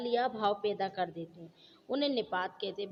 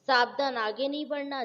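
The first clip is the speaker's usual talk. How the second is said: louder, sharp warning on savdhan; warning call; 3 semitones higher, 4 dB louder than usual. Shown as a demonstration. Teacher showing students a warning cry, called out louder. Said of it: "चेतावनी बोधक".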